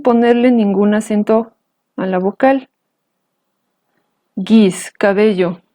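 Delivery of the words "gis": "Gis" on a low tone. Shown as a demonstration. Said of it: "Ahora unos ejemplos con tono bajo".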